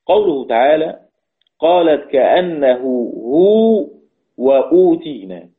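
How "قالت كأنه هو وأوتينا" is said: slow, drawn-out recited verse; Quran recitation. Acted. Teacher reciting the verse for his class, slow and drawn out. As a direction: recite it slowly as in tajweed.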